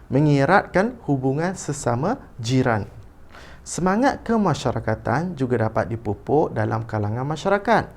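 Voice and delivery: teacher's clear storybook reading; intoned read-aloud for pupils to copy; expressive model reading. Shown as a demonstration. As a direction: read a school passage aloud with lively intonation. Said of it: "membaca dengan intonasi".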